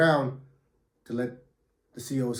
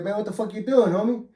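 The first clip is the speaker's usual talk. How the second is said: surprised; 7 semitones higher than usual. Retold or imitated. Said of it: "I'm like".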